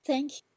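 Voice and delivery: "Thank" as a first tone, high and flat. Shown as a demonstration. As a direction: THANK held high and level. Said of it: "all the four tones".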